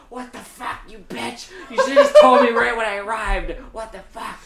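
high, laughing mock outrage as Dorothy; Dorothy breaking character. Dorothy snapping at the good witch, laughing outrage. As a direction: squeal it like a fed-up Dorothy. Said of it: "Dorothy breaks character, is like".

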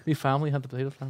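quick, lightly put-on Irish accent; a hint of a mock Irish brogue. Shown as a demonstration. Host showing off to co-hosts, quick joking Irish accent. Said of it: "I can do an Irish accent too".

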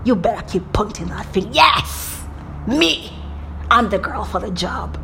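cocky, daring retort, pitch jumping up on the short words; mock-arrogant defiance at pointing fingers; arrogant swagger. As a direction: throw the dare back proudly. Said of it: "my arrogant side is always like".

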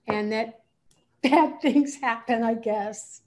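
unsure, with a nervous laugh; hedging with a laugh. Real, not acted. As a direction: trail off and soften it with a laugh. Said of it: "when you say, "I guess," let's try it again".

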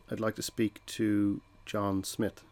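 slow, soft and matter-of-fact; confident caller. Shown as a demonstration. Salesperson to receptionist, calm and assured. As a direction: ask as if you belong there. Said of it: "if you do it this way".

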